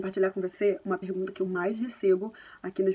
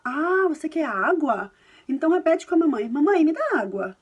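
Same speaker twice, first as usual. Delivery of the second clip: gentle coaxing parent; 4 semitones higher, 6 dB louder than usual. Retold or imitated. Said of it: "você pode falar".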